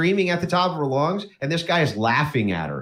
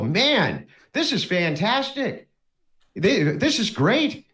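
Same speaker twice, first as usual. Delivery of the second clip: acted wonder, drawn out and higher; delighted newcomer; 4 semitones higher than usual. Newcomer thanks the friendly neighbor, delighted. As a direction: gush slowly with mock delight.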